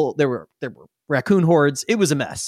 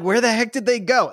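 goblin voice; 7 semitones higher than usual. Acted. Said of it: "you were like".

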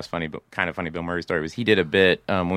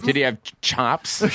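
stumbling, higher-pitched question; awkward word delivery; 5 semitones higher than usual. Retold or imitated. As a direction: trip on the last word, unsure of it. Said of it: "it was clearly the way I even".

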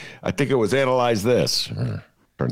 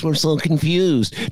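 mock confusion; 7 semitones higher, much slower than usual. Mocking Democrats.

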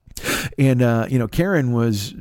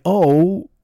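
encouraging friend; 4 semitones higher than usual. Retold or imitated. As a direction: gently talk him out of it, sweetly. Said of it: "She was saying".

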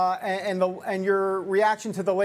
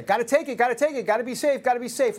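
mocking the media; 5 semitones higher, faster than usual.

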